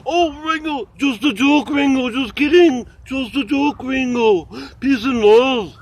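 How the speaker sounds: high, pleading mock apology; high mock-pleading apology to a musician. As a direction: beg a musician not to be offended. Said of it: "Hey, but you don't want".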